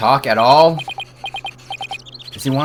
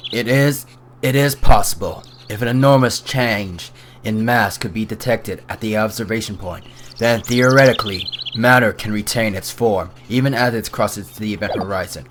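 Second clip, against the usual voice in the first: a lightly lower, detached lecturing voice; aloof scientist; 3 semitones lower than usual. Acted. Scientist lecturing the lawyers, lightly voiced and detached. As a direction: explain it like a distracted genius.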